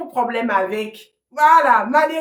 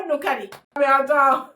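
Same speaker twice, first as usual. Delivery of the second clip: usual speaking voice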